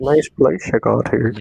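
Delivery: put-on the friendly Wisconsin local, in Midwestern accent; mock Midwestern accent. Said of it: "Midwestern accent".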